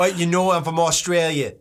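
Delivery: mock Aussie accent through amusement; Australian accent. Co-host establishing the voice on request, mock Australian accent. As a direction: put on a broad Australian voice, half laughing. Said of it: "No, establish one, one voice".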